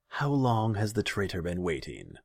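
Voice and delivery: haughty ruler asking; imperious and bored; cold Khan voice. A narrator's reading. Khan questions servant.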